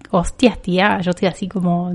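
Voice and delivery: playful imitation of Spain's accent; acento de España imitado. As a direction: drop into mock Castilian Spanish. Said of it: "ya pienso en gallego". (imitando a una española)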